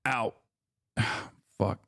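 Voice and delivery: sudden yelp of pain after stubbing a foot; short pained ow, a sigh, then a curse; stubbed his foot mid-stream; real pain. Real, not acted. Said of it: "I just hit my foot".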